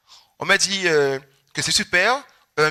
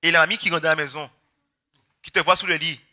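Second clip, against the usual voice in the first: ordinary talk, nothing marked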